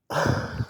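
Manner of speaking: big tired yawn. Real, not acted. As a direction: let out a yawn mid-sentence. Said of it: "my second yawn".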